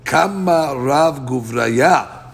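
slow, drawn-out mock admiration; sarcastic. Shmuel mocking the lone rabbi's ruling, slow and sarcastic. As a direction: draw it out as a sneering compliment. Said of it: "said sarcastically to him".

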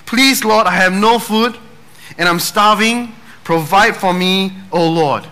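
put-on high pleading old lady's prayer; a hungry old woman calling up to the sky; old lady crying out. Old lady on her porch begging the Lord for food.

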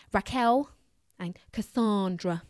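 hammed-up Cockney, Cassandra drawn out slowly; Cockney accent. Shown as a demonstration. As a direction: ham up the London accent on the last names. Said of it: "You've gotta say them in the Cockney accent".

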